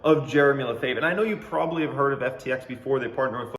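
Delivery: bright salesy sponsor-read voice; hammed-up announcer pitch for the ad; mock ad read. Host hypes his fake crypto sponsorship in a mock ad-read voice.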